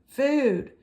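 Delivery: high, tiny chick voice; peeping gosling. Acted. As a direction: peep it out like a hungry baby bird. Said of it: "peeped the gosling".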